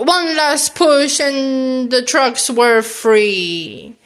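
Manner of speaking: slow, effortful heave through the words; drawn-out mock strain; pretend straining. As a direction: read it while pushing hard. Narrating while acting the push.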